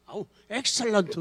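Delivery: "아우, excellent" stretched slowly with a falling sigh of awe; admiring drawl. Shown as a demonstration. Preacher showing how to praise someone who does well, slow and admiring. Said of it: "뛰어나게 하면은".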